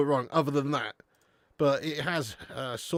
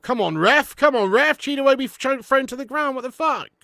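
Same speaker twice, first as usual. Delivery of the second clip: loud outraged yell at the ref; pleading with the referee; 11 semitones higher, 8 dB louder than usual. Real, not acted. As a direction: shout at the referee in disbelief. Watching match, foul not given.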